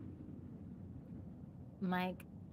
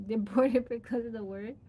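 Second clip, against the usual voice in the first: laughing; 4 dB louder than usual. Real, not acted. Laughing at own accent.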